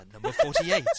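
booming high announcer call; lottery announcer. Retold or imitated. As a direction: call the number like a TV lottery host. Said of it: "he says".

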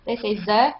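"the" said as a French speaker would, th turned to z. Shown as a demonstration. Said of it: "the T H, instead of saying the".

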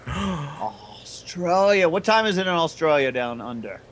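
drawn-out, hammed-up Australian "Australia"; mock Australian accent. Host echoing the caller's country, in a mock Australian accent. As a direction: put on an exaggerated Australian accent.

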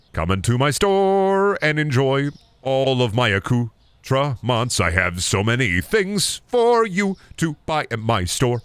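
slow, grand shopkeeper voice; store owner pitch. Acted. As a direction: sell it like a proud owner.

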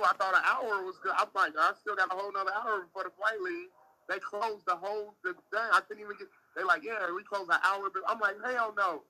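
venting at the airport staff; worked-up rant. Real, not acted. Stranded traveler venting to friend, heated and loud.

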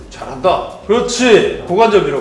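ordinary talk, nothing marked

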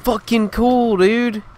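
high, loud mocking rage; sarcastic outburst. Real, not acted. Gamer mocking a player camping with a shotgun, sarcastic rage. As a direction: sneer it at the enemy.

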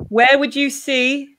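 slow, drawn-out wormy voice; worm impression. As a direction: stretch it out like a worm. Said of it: "That's my worm impression".

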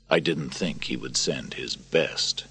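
bitter soldier. Acted. Narrator voices Maximus.

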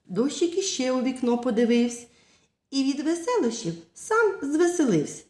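put-on sing-song rhythmic verse for kids; poem recitation. Teacher reading a rain poem to children, rhythmic. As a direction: recite it like a nursery rhyme.

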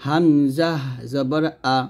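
"হামজা জবর আ" spelt out measuredly, syllable by syllable; plain open "আ" after the letter name; model letter drill. Shown as a demonstration. Teacher demonstrates Arabic letter sounds, measured recitation of "আ". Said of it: "তাহলে উচ্চারণগুলো হবে".

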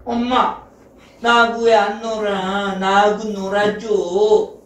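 lightly voiced child begging to play; a touch of drawn-out pleading; pleading little girl. 영희가 엄마에게 놀자고 조름. (살짝 조르는 여자아이 목소리)

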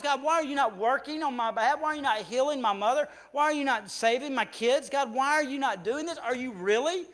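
loud, high, pleading complaint to God; a believer venting anger at God over unanswered prayers, loud; upset at God. Retold or imitated. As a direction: pour out frustration in a rising rant at God. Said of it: "gotten upset at God saying".

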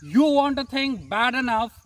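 motivational poem recitation. Acted. Poem teaser before intro.

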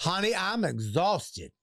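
slow, put-on exhausted worker; hammed-up weariness; playing weary counter woman. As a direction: drag it out like a worn-out cashier. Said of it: "I'm her".

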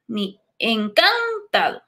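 encantado said slowly with misplaced stress; wrong stress shown. Shown as a demonstration. Teacher showing students a second wrong stress. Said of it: "No decimos encantado".

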